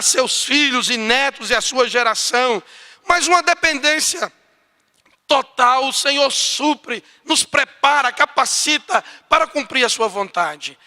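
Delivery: loud, high climactic sermon; preaching at full force. Acted. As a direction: build the blessing to a rousing peak. (pregação intensa, voz alta e elevada)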